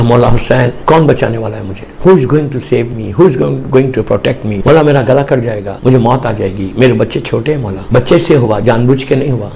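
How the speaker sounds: low, hushed plea to the Imam; mild pleading prayer. Retold or imitated. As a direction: beg for mercy in a low voice. Man pleading to Imam Husain.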